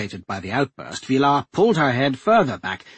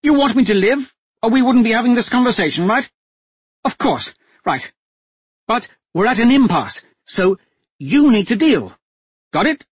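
higher, louder, composed noblewoman; a hostage duchess coolly taking charge; steady duchess voice; 11 semitones higher, 7 dB louder than usual. A narrator's reading. Captive duchess telling the men to make a deal, steady and firm.

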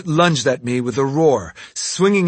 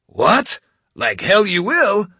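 higher, defiant protest; 8 semitones higher, 3 dB louder, slower than usual. Acted. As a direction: scoff and refuse to leave. Ronin objects, defiant.

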